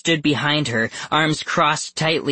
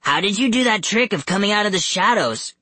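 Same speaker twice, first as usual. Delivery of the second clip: high, fast questioning; quick, pitched-up challenge; demanding; 8 semitones higher, faster than usual. A narrator's reading. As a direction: demand an answer from strangers. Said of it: "Carter demanded".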